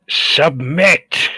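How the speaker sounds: desperate battle cry, slow and heavy; yelling. Acted. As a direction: shout them down, pleading and threatening. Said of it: "I'll yell out".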